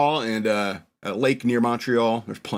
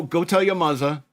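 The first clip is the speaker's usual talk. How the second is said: higher-pitched mock German accent; German lady's accent; 4 semitones higher than usual. European lady sends the kid home to mother, mock German accent. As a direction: slip back into the imitated German lady. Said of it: "I don't know why she's German".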